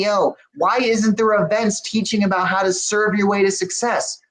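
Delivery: retold burst of visionary enthusiasm; impassioned challenge. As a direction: pitch the vision as a string of urgent why-nots. Retells passionate rhetorical challenge to himself.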